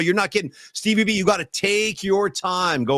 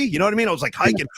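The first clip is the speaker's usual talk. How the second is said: ordinary talk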